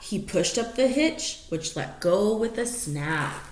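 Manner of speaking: lively rhyming read-aloud; story narration. Acted. Reading a rhyming picture book to the dogs, lively storytelling. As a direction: read it like a bedtime picture book, bouncing the rhymes.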